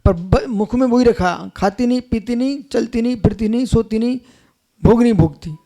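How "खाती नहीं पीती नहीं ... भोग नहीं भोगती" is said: imitated rote recitation. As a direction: recite it like crammed-in lessons, one short phrase after another. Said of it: "ये रटा दिया". (रट्टू तोते की हल्की नकल, धीमी आवाज़ में)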